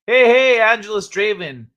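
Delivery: shouted hello to a friend; loud greeting. Real, not acted. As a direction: hail the viewer across the room.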